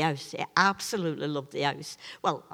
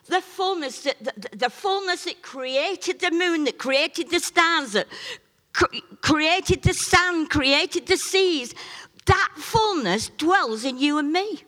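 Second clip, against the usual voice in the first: high, slow, ringing preacher's cry; preaching at full force; 9 semitones higher than usual. Acted. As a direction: proclaim it like a revival preacher. Preaching about the fullness.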